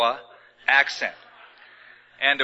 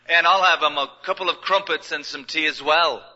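lightly put-on English accent ordering at a counter; English accent imitation. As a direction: try to pass as English, a hint of the accent. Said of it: "I chose an English imitation".

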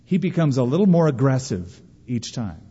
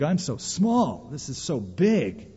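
softer, slow, a touch daunted; small overwhelmed voice; 6 dB quieter, slower than usual. Retold or imitated. Student facing intellectual giants, softer slow overwhelmed voice. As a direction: shrink the words as if dwarfed.

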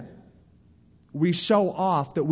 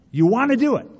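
tempted; 9 semitones higher, 6 dB louder, faster than usual. Acted. Tempted urge to retaliate.

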